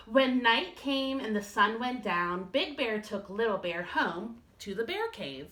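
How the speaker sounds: put-on lively read-aloud to kids; storytime reading. Teacher reads a bedtime story to her class.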